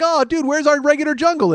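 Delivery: voicing his cock. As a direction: play the lost penis, puzzled. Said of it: "and it's like".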